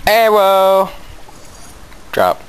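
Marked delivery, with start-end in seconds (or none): 0.1-0.9 high, odd-voiced echoed call; playful echo. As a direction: parrot it back in a silly voice. Echoing partner's call.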